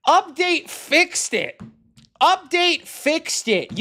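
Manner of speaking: high, loud, slow sing-song mockery; mocking parrot. Developer parroting the commenter in loud mocking sing-song. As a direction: drag out each word to ridicule it.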